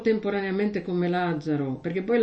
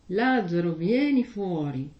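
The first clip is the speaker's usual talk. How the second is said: mock loud call; 2 semitones lower than usual. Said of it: "grida forte".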